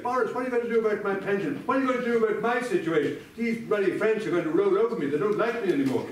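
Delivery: pleading expats. Retold or imitated. Worried expats pleading with Boris.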